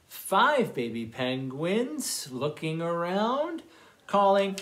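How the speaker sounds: slow singsong counting rhyme; reading to children. A narrator's reading. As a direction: read it slowly to little ones.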